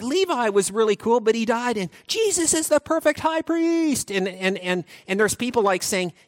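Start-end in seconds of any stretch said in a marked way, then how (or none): 0.0-4.1 hyped cheer. Acted. Continuing the hyped comparison.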